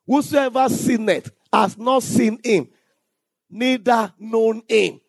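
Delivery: slow, deliberate reading of scripture; measured pulpit reading. Acted. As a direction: lay each phrase of the verse down slowly. Reads scripture slowly.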